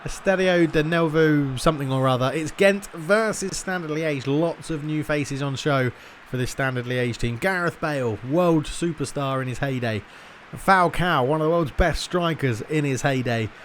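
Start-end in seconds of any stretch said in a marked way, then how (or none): 2.3-13.5 lightly performed football commentator; measured announcer build-up to kick-off; match commentary. Acted. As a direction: introduce the teams like a TV commentator.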